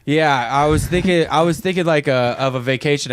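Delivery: spaced-out stoner talk, groping for words; stoned. Real, not acted. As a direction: drift and lose the word like you're high. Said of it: "I'm sorry, I'm stoned".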